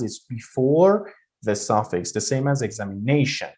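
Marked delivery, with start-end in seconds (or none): 2.6-3.5 "examination" with the stress on "na". Shown as a demonstration. Teacher showing students stress before the suffix, stressed "na" in "examination". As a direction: lean on "na" in "examination". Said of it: "you're putting the stress on ne".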